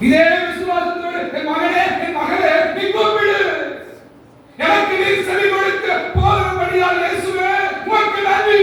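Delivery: preaching that climbs into a shout of thanks; rising prayer shout. Real, not acted. Pastor leads the church in prayer, building to a shout.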